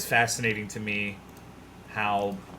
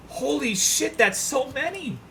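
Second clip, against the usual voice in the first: amazed; 4 dB louder, slower than usual. Real, not acted. Shocked at screen.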